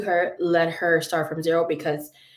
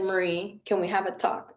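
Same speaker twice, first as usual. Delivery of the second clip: softer, sober request; serious brother; 5 dB quieter than usual. Retold or imitated. Brother asking his sister for a talk, serious. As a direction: quietly imitate a brother turning serious. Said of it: "my brother gets all serious".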